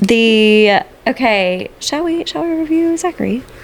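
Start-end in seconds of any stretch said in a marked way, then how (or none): 1.8-3.4 very high British accent with rising inflection. Co-host turning to review the next man, in a little British accent. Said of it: "Do you like my little British".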